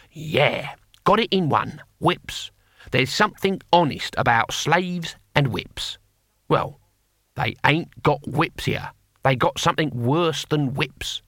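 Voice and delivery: lightly voiced grizzled barbarian, slow and emphatic; a hint of a knowing old warrior, drawn out; Cohen.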